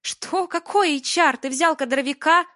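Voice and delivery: very high, loud incredulous questions; can't believe what he did; outraged disbelief. Acted. Алина возмущена.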